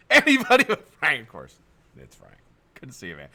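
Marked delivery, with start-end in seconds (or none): 0.1-1.2 high, loud comic wail with a laugh; mock dismayed cry. Host teasing Frank over his package, mock wail. Louder comic repeat of dread.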